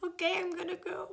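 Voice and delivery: tiny high-pitched voice; mock-meek high little voice; timid retreat. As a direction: back away in a small, high squeak. Retold timid retreat from the growling.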